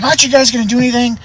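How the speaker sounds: high, fast, urgent plea; freaking out. Retold or imitated. Old man to the deputies, high frantic appeal. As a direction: mimic a frantic man demanding help. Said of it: "freaking out".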